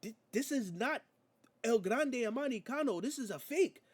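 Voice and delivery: high, protesting mock Spanish accent; Penta impression, bad accent. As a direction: argue with the referee in a badly faked Spanish accent. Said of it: "my accent is terrible".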